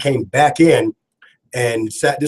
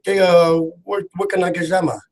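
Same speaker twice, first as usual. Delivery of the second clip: rough attempt at a West African accent; lightly put-on West African accent, hesitant start; Yofi accent; 4 semitones higher than usual. Host imitates his friend asking for coffee, mock West African accent. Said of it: "that's my best Yofi accent".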